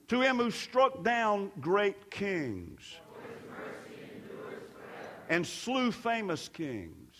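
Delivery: measured psalm declamation, verse by verse; responsive scripture reading. Real, not acted. Preacher reads the psalm for congregation to answer, declaiming. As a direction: declaim each line and wait for the congregation.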